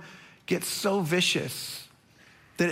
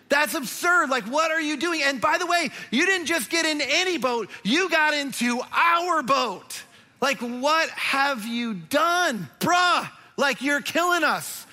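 mock outrage; 5 semitones higher than usual. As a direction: play the incredulous sailor, hammed-up. Sailors berate Jonah, mock outrage.

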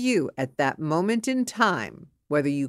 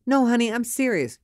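higher, quick insistent plea; insistent wife; 6 semitones higher, faster than usual. Acted. Wife to husband reading the paper, insistent. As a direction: press him to take you seriously.

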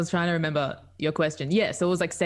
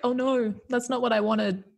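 dismayed; 7 semitones higher than usual. Retold or imitated. Quoting a creeped-out scene partner.

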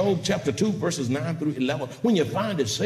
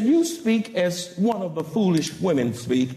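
kindly rebuke. Acted. Job answering his wife, kindly rebuke. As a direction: correct her without calling her a fool. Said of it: "he rebuked her kindly".

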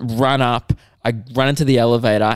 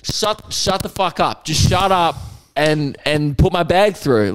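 inner rage; 5 semitones higher than usual. Retold or imitated. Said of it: "like, shaking".

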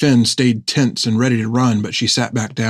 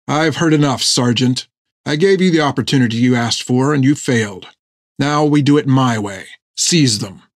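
lightly voiced commanding captain; stern officer. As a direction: cut him off with firm authority, dropping on the order.

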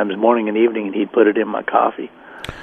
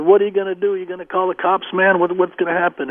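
freaked out; 6 semitones higher than usual. Retold or imitated. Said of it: "I freaked out".

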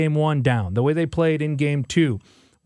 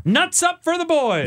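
very high, drawn-out hammed-up holler; playful high-pitched bar call; mock rowdy shout; 14 semitones higher, slower than usual. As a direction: holler it across the bar, stretching the words.

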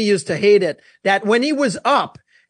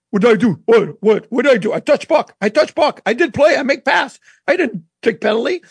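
put-on Russian accent. Hockey player protesting his penalty in Russian accent. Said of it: "in his Russian accent".

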